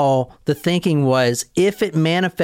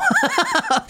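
a burst of high, shrieking laughter; can't hold it in, squeal with laughter; high laughing shriek. Real, not acted. Cracking up at the misread name.

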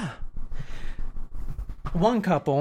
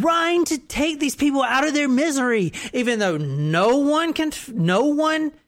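mock whine; 4 semitones higher than usual. Mock whining killer.

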